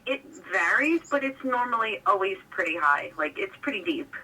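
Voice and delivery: telephone sound on a call-in; over the phone. Real, not acted. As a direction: speak through a phone receiver. Caller answers on phone line.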